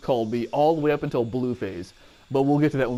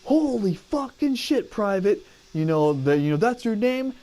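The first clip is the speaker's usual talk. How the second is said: drill sergeant; 6 semitones higher than usual. Retold or imitated. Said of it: "he went".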